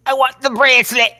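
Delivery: hammed-up Scottish-accent demand; Drew McIntyre. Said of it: "the same accent that Drew had".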